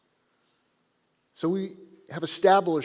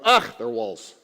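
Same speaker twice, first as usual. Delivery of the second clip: bored students; 2 semitones lower, 6 dB louder, slower than usual. Acted. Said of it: "They go".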